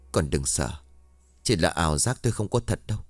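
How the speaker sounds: low, gentle calming words; reassuring. Acted. Old man calming a terrified neighbour, low and gentle. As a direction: soothe her like a frightened child. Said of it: "rồi trấn an".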